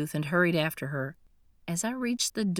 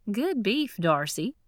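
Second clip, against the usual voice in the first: mouth full; 4 semitones higher than usual. Acted. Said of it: "chewing busily".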